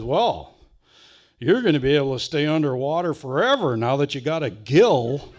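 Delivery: laughing as he delivers the cousin's gag; cousin's joke through laughter. Retold or imitated. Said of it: "And my cousin says".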